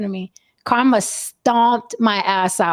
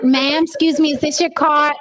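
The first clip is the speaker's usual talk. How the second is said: mock polite cop; 4 semitones higher than usual. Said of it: "There wasn't".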